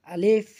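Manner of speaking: আলিফ said lightly; light alif. Shown as a demonstration. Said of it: "হালকা করে উচ্চারণ করব". (আলিফ হালকা করে উচ্চারণ)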